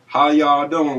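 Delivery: lightly imitated Kentucky greeting; easygoing mock Southern hello at talking volume; Kentucky accent. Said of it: "I lived in Kentucky myself".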